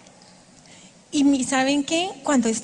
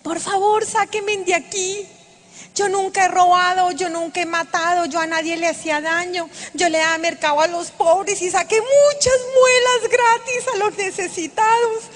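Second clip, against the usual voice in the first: desperate pleading cry; 4 semitones higher than usual. Retold or imitated. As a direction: plead frantically, as if trapped in fire. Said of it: "yo empiezo a gritar desesperada".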